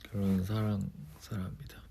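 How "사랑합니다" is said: soft whispered love confession. Real, not acted. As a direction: breathe it out as a whisper. (속삭이듯 사랑 고백)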